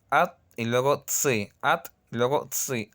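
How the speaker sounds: "At" then a pause then "tsi"; split syllables. Shown as a demonstration. Teacher to students, pausing between at and tsi. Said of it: "hay que hacer una pequeña pausa".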